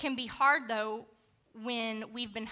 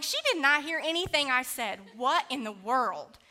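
indignant; 2 semitones higher, 4 dB louder than usual. Retold or imitated.

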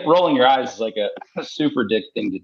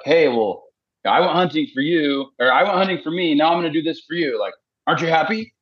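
higher, eager voice, proud of the trade he made; mock pleased husband; 6 semitones higher than usual. Husband tells his wife about a hunting trip, mock eager and higher. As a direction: pitch it up like a husband who thinks he's owed thanks. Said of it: "We're like".

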